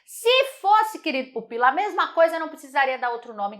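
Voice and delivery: a teasing, lofty answer to a pupil; playful teacher retort. Acted. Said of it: "answer to the student".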